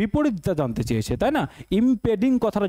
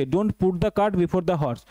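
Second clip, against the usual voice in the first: careful, spaced-out classroom reading; slow dictation; much slower than usual. Shown as a demonstration. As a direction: stretch every word of the proverb. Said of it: "teacher reads the proverb slowly".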